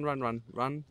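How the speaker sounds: usual speaking voice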